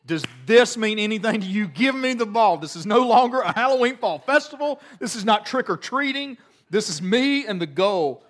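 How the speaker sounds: high, loud hammed-up game-face challenge; mock intense kid. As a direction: play the tiny competitor who's dead serious.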